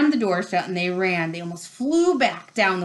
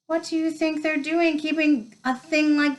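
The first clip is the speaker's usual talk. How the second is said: high, incredulous complaint; protest, stretching the end out; indignant disbelief; 8 semitones higher than usual. A narrator's reading. A shaken pupil complains about the monster at school, indignant.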